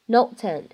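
"note ten" as notes and run together; one linked word, "note ten"; linking. Shown as a demonstration. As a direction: carry the s straight into the vowel in "note ten". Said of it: "可以做一个连读".

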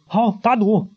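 high, quick eager yes; eager agreement. Acted. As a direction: jump at the bet. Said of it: "马上附和".

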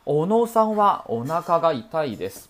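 teacher's clear correct read; correct model sentence. Shown as a demonstration. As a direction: stress the topic おのさんは. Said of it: "你必须把主体列出来".

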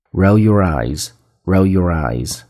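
drawn-out, careful English phrase; slow model reading. Shown as a demonstration. Teacher introduces the last phrase to learners, slow and careful. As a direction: model it slowly, twice, for learners.

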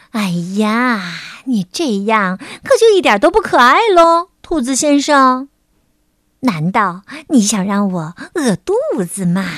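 lightly voiced wheedling bear; 熊小姐撒娇. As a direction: coax the rabbit with lively pitch swings. Voices the bear pleading with rabbit. (稍带撒娇的熊小姐口吻)

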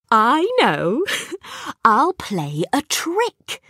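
put-on giggling mid-line, slow, high child voice; a cheeky kid laughing at his own plan; laughing boy. A narrator's reading. Kipper to himself, plotting a trick, giggling. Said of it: "Kipper laughed".

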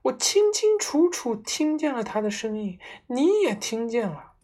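high, loud frightened insistence; wife shrieking she heard it; shrill shriek. A narrator's reading. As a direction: shriek it at him. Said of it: "尖叫着说".

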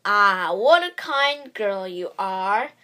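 slow, loud, sly wolf voice; smiling wolf. A narrator's reading. Wolf flatters the girl, sly and smiling. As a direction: flatter her like a scheming wolf. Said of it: "smiled the wolf".

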